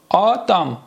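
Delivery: «آدم» as "aa-dam", both syllables distinct; model pronunciation. Shown as a demonstration. Teacher models the word for students, carefully sounded out.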